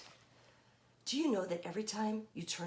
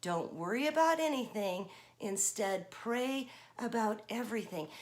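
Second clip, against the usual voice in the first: recitation. Shown as a demonstration. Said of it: "Can you say that with me?".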